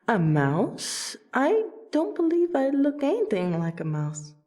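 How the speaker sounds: swooping, indignant disbelief; mock offence. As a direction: question it incredulously, pitch leaping then falling. Offended at being called mouse.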